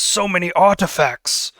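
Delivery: awed Billis. Acted. Billis admires artifacts.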